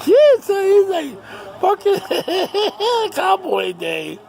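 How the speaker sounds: high, loud laughing voice. Real, not acted. Teller cracking up over the cowboy story, laughing. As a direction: crack up through the words.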